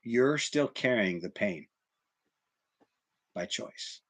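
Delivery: slow, fading to a breathless whisper; quiet wise monk. Acted. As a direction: let the lesson sink in softly. Old monk's quiet lesson.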